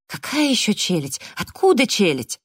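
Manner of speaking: high, bewildered protest; baffled questioning. A narrator's reading. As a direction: ask it in flustered disbelief. Justin baffled, questioning again.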